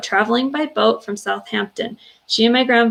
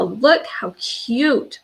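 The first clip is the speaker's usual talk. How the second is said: cooing; 3 semitones higher, much slower than usual. Real, not acted. Cooing over grandma photo.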